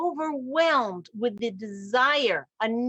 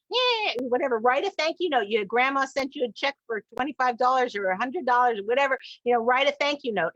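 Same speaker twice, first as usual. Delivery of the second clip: put-on dismissive teen; 3 semitones higher than usual. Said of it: "I'm like".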